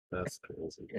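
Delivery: breathy whispered repeat; whispered echo. Real, not acted. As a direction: whisper it to yourself. Echoed reaction, said twice.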